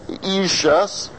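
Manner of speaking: ishus said short and quick. Shown as a demonstration. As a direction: clip the ishus fast. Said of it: "the ishus goes quickly".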